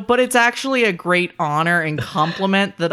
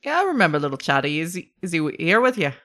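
put-on Boston accent; faster than usual. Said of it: "Nope, not that accent".

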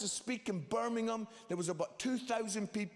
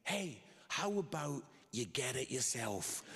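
lower, unraised mock shout-back; retold son's retort; 5 semitones lower, 3 dB quieter than usual. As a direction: toss back a cheeky retort without shouting. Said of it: "he shouts back at me".

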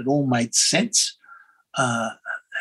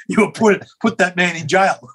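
joking, laughing; 4 semitones higher than usual. Retold or imitated. Jokes about coughing in public, laughing.

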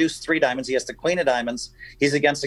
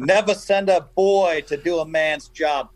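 put-on slow, raised Italian-accented needle; John Benetti's Italian accent; 4 semitones higher than usual. Pointing at the beaten player, slow Italian-accented taunt. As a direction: lecture it slowly in an imitated Italian accent. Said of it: "but with this pointing".

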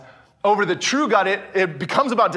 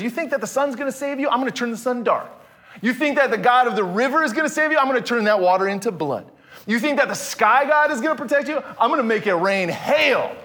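fast, higher taunting challenge of God; God's challenge; 4 semitones higher, faster than usual. Acted. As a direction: voice God daring the false gods, quick and pointed. Preacher voices God challenging Egyptians.

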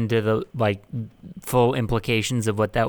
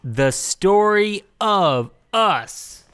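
movie trailer voice; 7 semitones higher than usual. Pretend. Mock trailer announcement.

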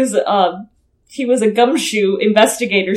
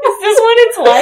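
laughing; 10 semitones higher, 4 dB louder than usual. Real, not acted. Laughing near tears.

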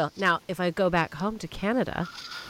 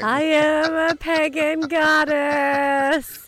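grand goddess voice; 9 semitones higher, 5 dB louder, much slower than usual. Pretend. Playing goddess on cue.

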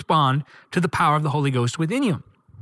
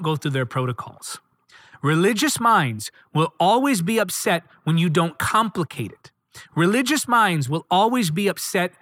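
preaching refrain. Acted. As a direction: drive the refrain home.

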